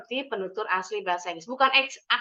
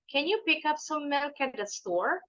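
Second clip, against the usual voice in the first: slightly quicker, higher and linked through "milk at the store"; a little faster; 4 semitones higher, 4 dB quieter than usual. Shown as a demonstration. Teacher shows the next practice step, slightly sped up. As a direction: pick up the pace a little, keeping the words joined. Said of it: "You may speed up a little".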